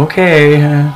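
called-out reply. Retold or imitated. Shopper waving back to the old lady, calling out. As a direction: holler it back as you wave.

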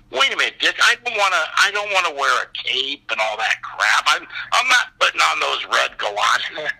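high-pitched start, settling as the protest runs on; comically hammed-up refusal; indignant protest. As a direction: object like a balking actor. Acted protest about the costume.

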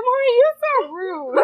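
put-on high, loud little-kid voice; indignant four-year-old. Four-year-old scolds tired mother, high imitated indignation. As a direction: imitate a small child scolding Mommy. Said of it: "My four-year-old said".

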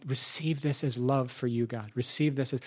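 soft, low offering to God; retold prayer. Preacher offering his preaching to God, retold soft prayer. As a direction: murmur a recounted prayer. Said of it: "And I was like".

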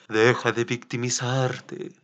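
low, slow firm reprimand; stern coach telling you to stop self-pity; stern inner voice. Shown as a demonstration. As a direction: drag out the scolding, low and steady. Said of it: "acuérdate de mi voz".

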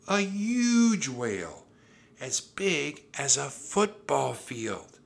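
high, loud, slowly stretched words; excited. A narrator's reading. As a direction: marvel at the enormous size. Annie excitedly describes the whale.

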